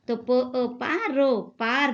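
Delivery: पो ओ पा रो drawn out slowly, then पार joined; slow blending of sounds. Shown as a demonstration. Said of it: "पो के तीन नुक्ते लगाने की वजह से". (अक्षर धीरे-धीरे जोड़कर पढ़ना)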